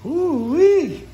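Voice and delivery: high, loud whoop; excited whoop. Real, not acted. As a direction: whoop it with glee. Cheering at the fish.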